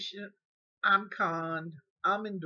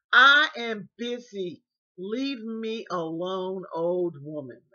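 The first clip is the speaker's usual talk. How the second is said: rude brush-off; 8 dB louder, slower than usual. Retold or imitated. Caregiver dismissing her.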